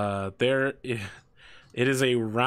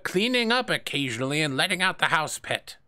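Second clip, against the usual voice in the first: put-on higher old man voice; defensive old assistant; 5 semitones higher than usual. The old assistant denies scorching the rooms. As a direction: protest your innocence.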